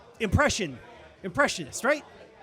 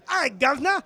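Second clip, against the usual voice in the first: mock Cockney; 5 semitones higher than usual. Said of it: "Cockney English. Can you do the".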